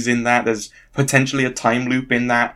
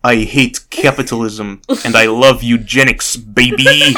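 hammed-up attempt at a Russian accent; comically bad Russian evil spy; 5 dB louder than usual. Friend performing an evil spy line on request, Russian accent. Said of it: "Do a Russian accent for me".

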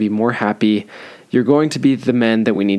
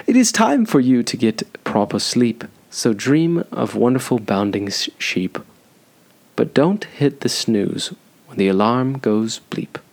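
put-on English accent for a poem; mock English accent. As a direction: recite it in a weird English accent. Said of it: "in a weird accent. I think I'm gonna try it in English".

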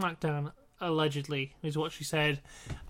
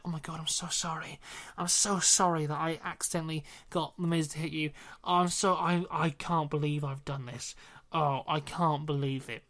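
mock apology; 3 semitones lower, 6 dB quieter than usual. Acting out Bryan's remorseful apology.

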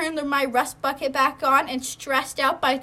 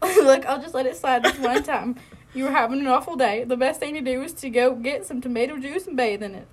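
put-on southern accent. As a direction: read it with a rough attempt at a southern accent. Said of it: "not reading him in a southern accent".

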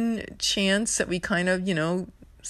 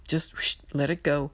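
whisper. Retold or imitated. Self-talk while emotional.

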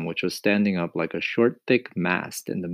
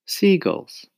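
calm; 12 semitones higher, 5 dB louder than usual. A narrator's reading. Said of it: "James answered calmly".

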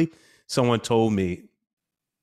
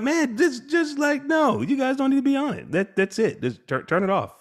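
firm parent order; 12 semitones higher, 4 dB louder than usual. Retold or imitated. Father tells kids turn off screens.

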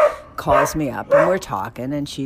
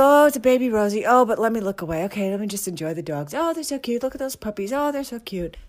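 cooing; 6 semitones higher, faster than usual. Retold or imitated. Gushing at puppy videos, high and excited. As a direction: melt over the puppies. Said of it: "So I go".

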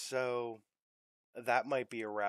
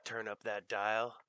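smooth, soft DJ voice; lightly crooned radio DJ; late night radio host; 2 semitones lower, 6 dB quieter than usual. Acted. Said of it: "you could be, like, a late night radio host".

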